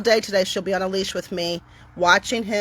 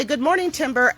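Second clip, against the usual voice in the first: higher, friendly sing-song; cheery dog greeting; 5 semitones higher than usual. Shown as a demonstration. How the household greets Timber each time, cheerful and high. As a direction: greet her so she knows you're safe. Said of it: "we have to say".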